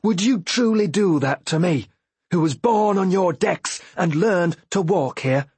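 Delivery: high, pained pleading; anguished plea. Acted. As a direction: beg with wounded hurt. Boyo pleads with the ship.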